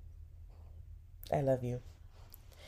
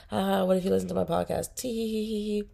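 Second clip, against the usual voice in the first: giggly mock comment; 3 semitones higher than usual. Fan reading her own comment with a fake giggle. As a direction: fake giggling tee hee.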